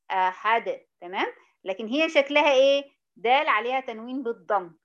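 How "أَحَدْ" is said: "أحد" ending on bounced d; stopped with qalqalah. Shown as a demonstration. Teacher repeating the answer, "أحد" as ahad. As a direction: echo the last d of "أحد". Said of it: "هذه القلقلة".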